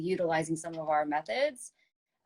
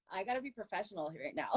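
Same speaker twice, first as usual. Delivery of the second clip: laughing; 5 semitones higher, faster than usual. Real, not acted. Holding back laughter retelling.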